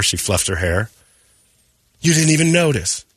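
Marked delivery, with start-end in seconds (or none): 2.0-3.0 1 mock offended coworker.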